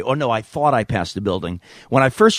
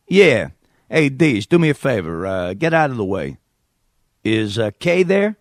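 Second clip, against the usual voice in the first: brash New York caller; New York accent. Acted. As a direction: brush the host aside in New York accent. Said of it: "me doing a New York accent".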